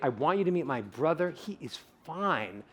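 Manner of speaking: mean every word of it; feeling it. Shown as a demonstration. Speaker demos an emotional delivery for the audience. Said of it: "But if I say".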